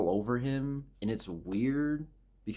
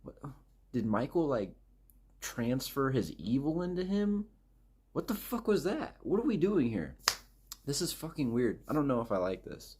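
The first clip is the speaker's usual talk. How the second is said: high, baffled disbelief; mock-baffled reaction to a movie twist; 5 semitones higher than usual. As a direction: squeak out your confusion at the twist. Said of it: "and I'm like".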